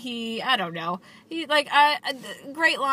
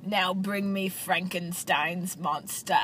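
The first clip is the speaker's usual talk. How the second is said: villain line reading; 4 semitones lower, 4 dB quieter, slower than usual. Retold or imitated. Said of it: "he says it that way".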